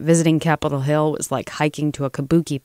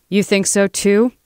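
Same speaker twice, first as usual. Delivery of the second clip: raised, louder challenge; snapping; 6 semitones higher, 5 dB louder than usual. A narrator's reading. Lobbyist rounds on Lena, snapping. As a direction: snap the question at her. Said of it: "the bulldog snapped at Lena".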